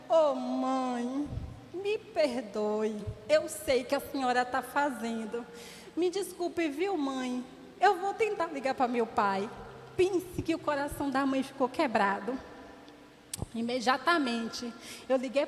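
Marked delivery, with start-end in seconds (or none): 0.1-9.5 a hint of a crying boy saying sorry; tearful apology. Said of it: "E aí ele chorando".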